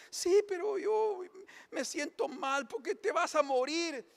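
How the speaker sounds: high, slow whimpering mock husband; crying husband. Husband in the joke whimpers to his wife, high and tearful. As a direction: whine out the fear like a sulking husband. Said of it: "el marido está llorando".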